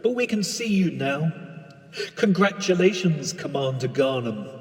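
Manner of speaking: understated radio control voice; launch control voice. Acted. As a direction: talk down to the astronaut like calm ground control.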